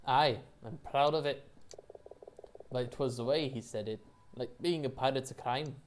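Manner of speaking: put-on a poorly done Scottish pirate accent; proud pirate in a shaky Scottish brogue. Scottish rat captain proud of piracy, loose accent. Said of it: "going for a Scottish accent here".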